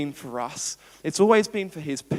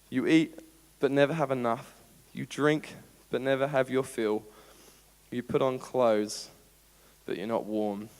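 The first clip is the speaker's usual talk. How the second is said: measured, lower-pitched solemn reading; scripture reading; 4 semitones lower than usual. Acted. Preacher reading the Lord's words to the church, measured and solemn. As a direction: read the verse out deliberately, with weighty pauses.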